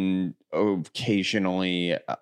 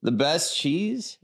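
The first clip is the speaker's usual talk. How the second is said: surprised question; 8 semitones higher, much slower than usual. Real, not acted.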